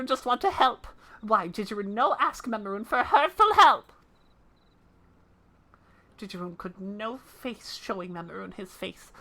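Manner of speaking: humble little creature, a bit sad; small creature voice. Acted. Creature voice again.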